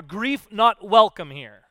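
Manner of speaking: loud, slow, spelled-out proclamation; reading a sign. Pretend. Preacher reads grief's keep-out sign, loud and slow. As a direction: announce it like a sign on the door. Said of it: "a sign outside your door".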